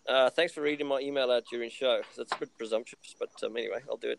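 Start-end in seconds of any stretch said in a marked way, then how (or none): 0.1-2.0 lightly put-on French accent. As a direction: read it with a hint of French. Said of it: "putting on a French accent was gold".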